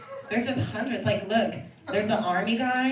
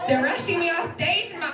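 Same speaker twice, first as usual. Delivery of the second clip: higher-pitched complaint called out; calling to mom; 6 semitones higher than usual. Acted. Performer tells mom about being hurried off, protesting. Calls to mom while rushed offstage.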